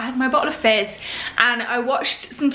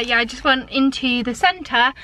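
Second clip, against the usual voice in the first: out of breath. Real, not acted. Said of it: "I'm so out of breath".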